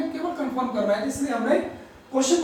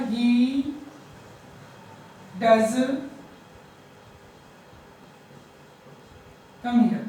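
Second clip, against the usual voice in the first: emphatic "he does come here"; stress on does; much slower than usual. Shown as a demonstration. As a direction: insist with "does". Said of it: "simple है, he does come here".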